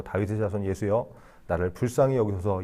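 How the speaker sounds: softly and politely call 다윗의 자손 예수여 with a small rise on 예수여; a mild, well-mannered plea instead of a desperate shout; the blind man calling to Jesus in a mock-genteel way, softly; gentle, polite call. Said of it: "그냥 뭐 젠틀하게 뭐".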